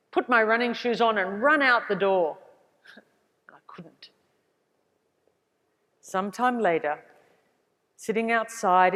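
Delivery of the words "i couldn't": barely audible, much softer, words sinking away; quiet despair. Real, not acted. Remembering her injury, a much softer defeated admission. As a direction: let it fall almost to nothing. Realising she can't run.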